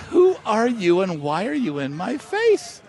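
retold incredulity, drawn out; bewildered demand. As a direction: spell out each question to a baffling stranger. Retold baffled reply to a stranger.

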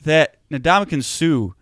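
fired-up indignation, pushing hard; getting heated. Real, not acted. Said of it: "I'm sorry I'm getting heated".

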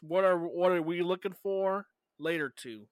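tripping over the wording of "later to"; garbled wording. Real, not acted. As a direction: stumble out "later to" in a muddle. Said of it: "that didn't make no sense".

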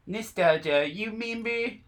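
high, breathy little whisper; squeaky member berries voice. Acted. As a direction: coax like a tiny talking berry. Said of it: "my attempt at member berries".

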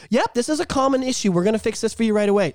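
lightly put-on upbeat agent, quickening; polite phone agent. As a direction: reassure the caller briskly after ranting. Unmuted, reassuring the customer.

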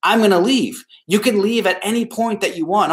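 stern. Shown as a demonstration. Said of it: "you could be more stern".

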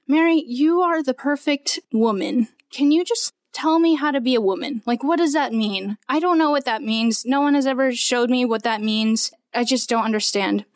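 a hint of frustrated demanding; mildly exasperated pleading; retold angry prayer. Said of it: "I was really angry 'cause I was like".

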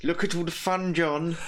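Clockwork Orange brainwasher. Retold or imitated. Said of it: "in A Clockwork Orange".

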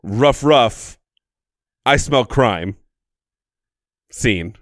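playful dog voice barking; cartoon dog. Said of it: "here's my audition".

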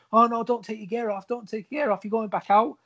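high-pitched, frantic promoter plea; mock panicked promoter. Promoter rushing over to stop the injured wrestler, high mock panic. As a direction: squeak it out like a flustered promoter. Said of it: "the promoter's coming over going".

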